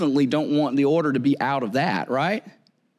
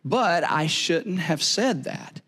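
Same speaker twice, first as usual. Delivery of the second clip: sincere apology; slower than usual. Shown as a demonstration. Preacher models a kinder apology for the congregation, slow and gentle. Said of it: "you can say it like this".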